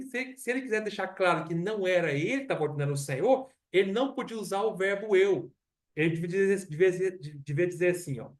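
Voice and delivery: ordinary delivery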